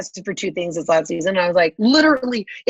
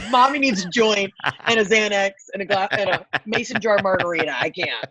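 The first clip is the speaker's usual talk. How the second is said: frazzled mom. Retold or imitated. Sleepless dog owner venting, frazzled mom. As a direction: moan like a worn-out mother. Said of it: "I was like".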